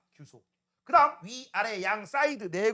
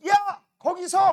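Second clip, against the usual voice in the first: higher, louder and slow shout to stop; slow yell; 8 semitones higher, 8 dB louder, much slower than usual. Retold or imitated. Teacher shouts after the runaway student, slow and loud. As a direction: drag out the stop call, loud. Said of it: "막 이런 식으로 얘기할 거 아니야".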